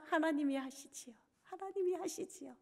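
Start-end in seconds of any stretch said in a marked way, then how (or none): 1.4-2.5 softer, breathy whispered repeat; whispered echo. Acted. Pastor surrenders to God in a whisper. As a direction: let it fall to a hushed whisper.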